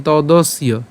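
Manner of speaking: "তদস্য" slowly as todos-iyo; y-glide pronunciation. Shown as a demonstration. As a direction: sound the y in "তদস্য" after the s. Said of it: "ইয়র মতো হবে". ("তদস্য", য-ফলা ইয়-র মতো)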